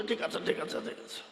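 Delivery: a defeated maulvi, quietly caving in; helpless giving in. Retold or imitated. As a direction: give up under pressure and mumble it. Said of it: "হাত পা মুড়িয়ে ধরে বলছে".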